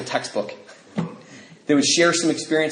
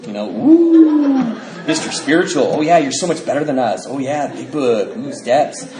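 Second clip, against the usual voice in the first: sneering mockery; 3 dB louder than usual. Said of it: "And he's like".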